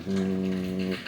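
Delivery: low, soft humming drone; quiet "mmm" held low; imitated drone. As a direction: hum the steady glide of the canoe. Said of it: "it was going like this".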